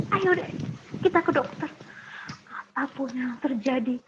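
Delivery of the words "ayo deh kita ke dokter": resolved. Retold or imitated. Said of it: "akhirnya saya bilang".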